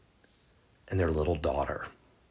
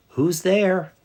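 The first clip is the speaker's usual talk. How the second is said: put-on much higher, louder quavering old lady; old lady calling; 13 semitones higher, 7 dB louder than usual. Grandmother in bed calling to the door, high and loud. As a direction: call out like a frail grandmother.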